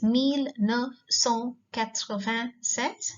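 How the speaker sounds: "mille neuf cent quatre-vingt-sept" read slowly; teacher modeling a French year. Shown as a demonstration. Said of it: "Mille is a thousand".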